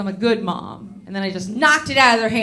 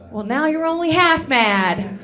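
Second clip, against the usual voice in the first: put-on teen's sassy comeback; 5 semitones higher than usual. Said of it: "looks at me and goes".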